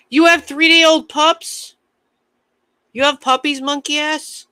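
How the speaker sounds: very high, slow, cooing squeal; squealing puppy excitement. Real, not acted. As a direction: coo like you're melting over newborn puppies. Reacting to a chatter's newborn pups.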